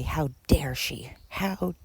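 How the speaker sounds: slow, half-whispered mock outrage; husband turning blame on his wife, slow mocking indignation. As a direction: parody the husband playing the victim, slowly. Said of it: "turn it around on her and say".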